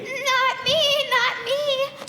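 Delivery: put-on a mild panic from young Jack; panicky boy. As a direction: squeal it out as the pot boils. Jack panics near the pot.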